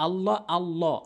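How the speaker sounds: আল্লাহ with a thick, rounded "llaw"; আল্লাহ, heavy "lo" sound. Shown as a demonstration. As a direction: demonstrate আল্লাহ with a dark L, never "la". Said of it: "এই লামকে ল বলতে হবে".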